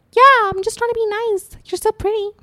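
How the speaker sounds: imitating the senior's sarcastic compliment; sarcastic sweetness. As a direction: sound sweet but mean none of it. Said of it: "being sarcastic".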